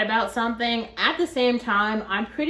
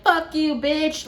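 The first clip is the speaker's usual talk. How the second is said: raised-pitch retold insult; imitated angry cursing; 7 semitones higher, slower than usual. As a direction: mimic his cursing, voice pitched up. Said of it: "He's still going".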